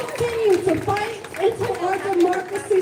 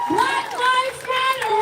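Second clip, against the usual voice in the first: slow called-out slogan; rally shout; 3 semitones higher than usual. Real, not acted. Speaker calling out a slogan to the rally crowd, shouted.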